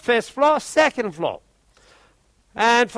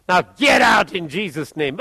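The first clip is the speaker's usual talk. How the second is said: commanding shout; 4 semitones lower, 3 dB louder than usual. Retold or imitated. Commanding the demon to leave.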